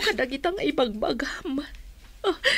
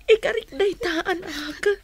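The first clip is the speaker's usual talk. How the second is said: tearful promise; 4 semitones higher, slower than usual. Acted. Mother parting from child.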